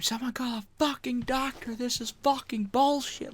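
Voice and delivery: put-on high, indignant old lady screech; high old lady outrage. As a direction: play a scandalised old lady yelling. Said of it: "Like an old lady".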